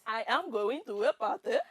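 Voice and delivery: singsong Indian accent demonstration. Shown as a demonstration. Contestant showing how it's done, Indian accent. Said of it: "I know this accent very well".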